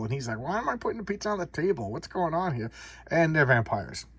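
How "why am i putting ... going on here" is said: higher-pitched puzzled questioning; acted-out bewildered complaint; baffled protest. Delivery boy questioning the girls' pizza order, baffled.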